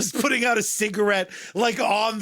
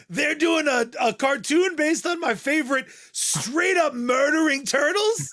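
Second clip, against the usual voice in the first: mock disbelief; 6 semitones higher than usual. Imagined disbelieving comic fan.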